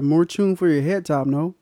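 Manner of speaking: put-on a light, hammy Jamaican accent. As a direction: toss off a Jamaican line. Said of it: "You come with these Jamaican accents".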